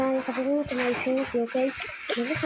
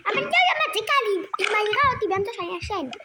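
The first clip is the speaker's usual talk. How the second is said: put-on whiny doll boy; 4 semitones higher, faster than usual. Doll boy complains to father.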